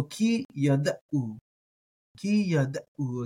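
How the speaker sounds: "yada'u" with a catch before the u; slow "ki yada'u", ayin marked; ayin sounded. Shown as a demonstration. Teacher drills the phrase, ayin sounded. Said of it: "I like the uh there for the ayin".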